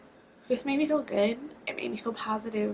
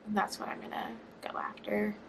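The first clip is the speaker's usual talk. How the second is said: softer whispered vow; 6 dB quieter than usual. Real, not acted. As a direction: quietly promise yourself. Whispered resolve.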